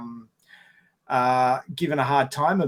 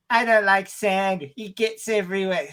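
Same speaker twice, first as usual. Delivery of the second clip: mock whiny Anakin; 5 semitones higher than usual. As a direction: imitate a whiny complainer, drawing it out. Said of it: "he's the whiniest bad guy".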